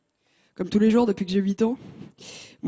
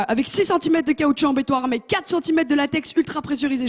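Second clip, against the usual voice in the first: mock ad; 3 semitones higher than usual. Advert-style product description.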